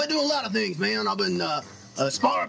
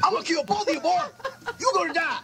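mock threat; 5 semitones higher than usual. Mock threat at teasing hosts.

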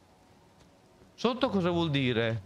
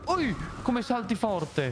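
mocking; 6 semitones higher, slower than usual. Real, not acted. Mocking the jumping horse.

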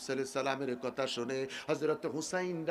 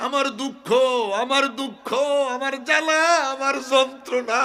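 high, sobbing lament; tearful wailing; 12 semitones higher, 10 dB louder than usual. Acted. Prophet grieving both lost parents, sobbing. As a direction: gasp and wail through each phrase. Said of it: "আমার নবী কেঁদে বলে".

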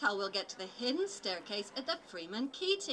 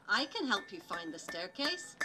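Dora voice. Acted. Dora the Explorer voice.

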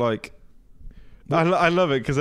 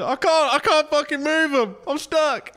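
high-pitched stuck penguin; panicky penguin; 14 semitones higher, slower than usual. Acted. Acting out a penguin that can't move, high panicky voice. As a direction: wail it high as a helpless penguin. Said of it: "What would a penguin say?".

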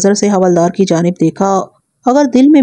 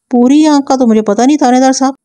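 mildly flustered, higher-pitched protest; raised pitch, a touch defensive; 5 semitones higher than usual. A narrator's reading. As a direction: read it as a slightly uneasy witness. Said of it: "وہ جز بز ہوتے ہوئے بولا".

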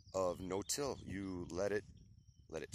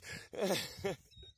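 breathless laugh; 10 semitones higher than usual. Real, not acted. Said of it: "man, I'm winded".

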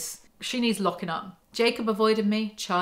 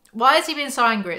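exasperated; 4 semitones higher, 5 dB louder than usual. Real, not acted. Exasperated rhetorical outburst.

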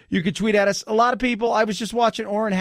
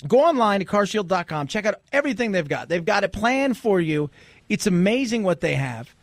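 upbeat sponsor read in the host's own voice. Acted. Radio host to listeners, a lightly pitched ad read. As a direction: sell it to listeners like a radio spot.

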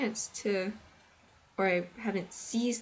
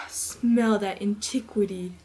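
pompous scholar; 6 dB louder, slower than usual. Retold or imitated. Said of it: "he thinks it's like this".

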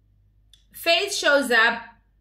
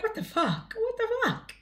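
higher, squealing disbelief through laughter; mock shocked Miriam; 10 semitones higher, 7 dB quieter than usual. Vlogger imitating Miriam's shock at Faith, laughing. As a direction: squeak it like you can't believe your eyes. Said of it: "Miriam is like".

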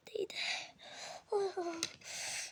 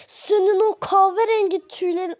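angry threat; 2 semitones higher, 5 dB louder than usual. Acted. Sister threatens sibling.

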